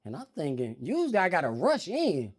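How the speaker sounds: ordinary talk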